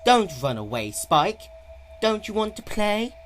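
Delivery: loud, high mocking call; taunting shout. A narrator's reading. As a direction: chase him down with the taunt. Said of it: "pursued him and shouted".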